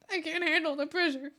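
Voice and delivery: put-on high, squeaky baby-talk gush; doting cutesy voice. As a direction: coo over them like a sweet pet. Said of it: "I'm like".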